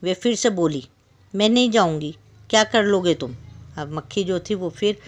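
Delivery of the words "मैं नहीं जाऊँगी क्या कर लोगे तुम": stubborn fly. Acted. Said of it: "मचल गई और उसने फिर जिद की".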